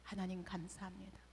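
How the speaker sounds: soft, whispered thanks to God; whispered prayer. Retold or imitated. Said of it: "감사부터 할 수밖에 없었어요". (속삭이는 감사 기도)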